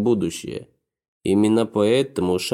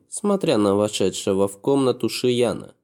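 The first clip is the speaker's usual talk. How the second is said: ordinary delivery, nothing marked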